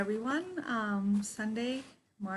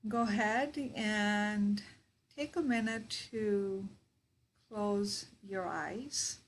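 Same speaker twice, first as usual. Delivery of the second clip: guided meditation. Real, not acted. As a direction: guide them into their breath, unhurried.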